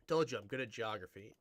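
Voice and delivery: normal talking voice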